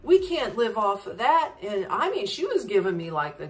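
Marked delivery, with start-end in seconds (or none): 0.0-1.5 higher, reproachful scolding; guilt-tripping shopkeeper. Retold or imitated. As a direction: lay a guilt trip on the tourist. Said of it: "And she's like".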